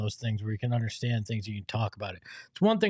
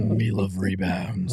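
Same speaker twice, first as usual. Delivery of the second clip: lower, slower big-man voice; deep voice impression; 6 semitones lower, slower than usual. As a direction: drop the voice low and slow. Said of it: "that Nick Richards voice".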